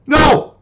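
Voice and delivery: high, loud, punched no; emphatic no. Real, not acted. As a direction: slam down the no. Answering his own question.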